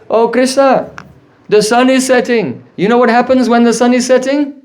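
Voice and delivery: acted motherly call, drawn across a distance. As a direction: call out a warning to a little boy. Mother calls her son in forest.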